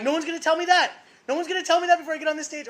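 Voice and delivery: high, loud, defiant yell that speeds up, laughing; indignant yell. Retold or imitated. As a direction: fire back at the organisers, defiant and laughing. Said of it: "I'm like".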